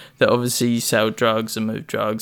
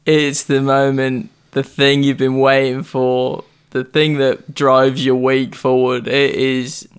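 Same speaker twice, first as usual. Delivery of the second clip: announcer build-up. Acted. Announces segment, slow build.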